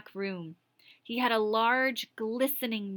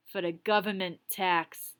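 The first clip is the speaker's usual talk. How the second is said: gruff Tiny. Acted. Tiny voiced.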